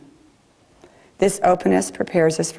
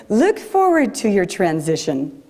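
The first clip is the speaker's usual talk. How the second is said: a hint of a German accent, rising high at the ends; lightly imitating an older German woman's accent; a touch of German accent, quoting her words; 3 semitones higher than usual. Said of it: "she had this great German accent".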